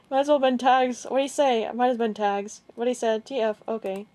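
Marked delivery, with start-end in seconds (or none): 0.1-1.0 said through a laugh, a bit higher. Real, not acted. Reading out the fan's message while laughing. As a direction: laugh as the words come out.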